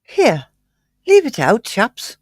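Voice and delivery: lightly done slangy London line; his own way of saying it. Pretend. Co-host reading a listener comment in his own way. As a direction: read it as he would, a little toned down. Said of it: "in the way you would say it".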